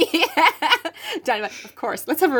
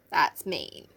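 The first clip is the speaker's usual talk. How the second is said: soft whispered aside; 7 semitones lower, 8 dB quieter than usual. Real, not acted. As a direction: whisper it under your breath. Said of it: "whispered aside".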